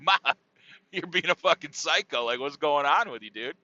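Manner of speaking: laughing while calling her a psycho. Retold or imitated. Son laughing at his ranting mom. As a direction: chuckle through the insult.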